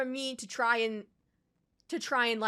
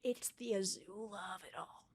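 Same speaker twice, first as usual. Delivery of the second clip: much softer, low muttered line; quiet bitter grumble; muttered aside; 3 semitones lower, 10 dB quieter than usual. Real, not acted. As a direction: say it under your breath in disgust. Muttered then repeated.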